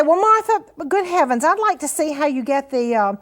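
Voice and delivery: a hint of a skeptical student; imagined viewer's question. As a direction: put on a mildly puzzled viewer asking Martha. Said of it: "you're gonna say".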